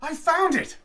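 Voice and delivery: high, delighted cry; cry of pleasure. A narrator's reading. Holmes at his lab bench, thrilled by his discovery. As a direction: shout it out in triumph. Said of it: "sprang to his feet with a cry of pleasure".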